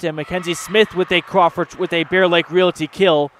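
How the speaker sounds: rising play-by-play burst as the kill lands; excited kill call. Real, not acted. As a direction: call the kill with a lift of energy. Live volleyball kill call.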